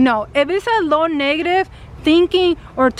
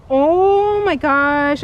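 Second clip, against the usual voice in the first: slow, drawn-out oh my gosh; stunned gasp; much slower than usual. Retold or imitated. Remembering the moment she ran the stop sign, stunned and slow. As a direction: let the shock stretch each word. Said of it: "I was shocked".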